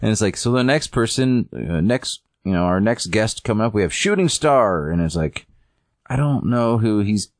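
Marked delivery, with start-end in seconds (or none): 0.4-4.9 lightly voiced host introduction, pitched up; show emcee. Host brings up next guest, light announcer lilt. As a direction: build lightly to the guest's name.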